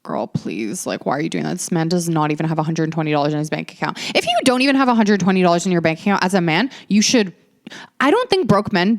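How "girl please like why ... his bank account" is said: dismissive aside. Retold or imitated. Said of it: "And I was like".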